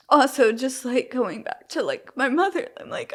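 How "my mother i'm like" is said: normal talking voice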